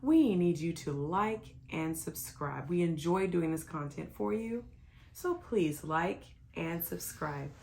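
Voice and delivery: slow, overdone sales pitch; infomercial voice. Pretend. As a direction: read it like a TV ad announcer. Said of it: "why you sound like an infomercial?".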